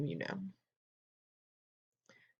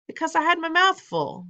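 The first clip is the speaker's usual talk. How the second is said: put-on much higher, louder child voice; a greedy boy's excuse; cheeky boy; 13 semitones higher, 5 dB louder than usual. Bruno answers cheekily.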